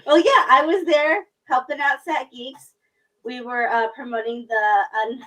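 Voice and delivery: winded from running, words rushed and loud; out of breath. Real, not acted. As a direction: talk while still catching your breath. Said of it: "sorry, I'm out of breath running across the house".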